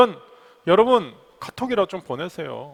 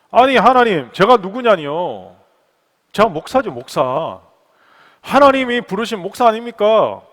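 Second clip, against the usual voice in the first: higher-pitched protesting comeback; mock-indignant protest; 4 semitones higher, 7 dB louder than usual. Pastor protesting to God that he is a called pastor, mildly indignant. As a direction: argue back as if affronted.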